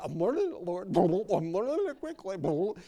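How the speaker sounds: lightly voiced contrite Peter; sheepish Peter. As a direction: hurry to assure the Lord.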